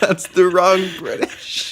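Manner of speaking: a put-on British voice, dryly correcting; mock British accent. Host acting out the tweet's joke, slow mock British accent. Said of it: "The guy says".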